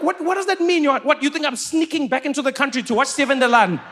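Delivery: high, disbelieving protest; high-pitched outraged disbelief; incredulous. Retold or imitated. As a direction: act baffled and outraged. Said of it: "I'm like".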